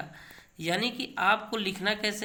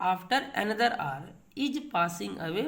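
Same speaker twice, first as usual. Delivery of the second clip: slow model reading; much slower than usual. Shown as a demonstration. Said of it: "तो जैसे यहाँ देखिए क्या है".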